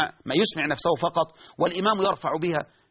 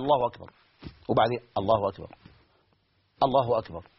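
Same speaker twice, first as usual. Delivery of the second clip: lower, anxious repeated takbir; obsessive worshipper; 9 semitones lower than usual. Retold or imitated. Obsessive worshipper restarting his prayer, lower anxious takbir. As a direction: restart the takbir again and again, unsure.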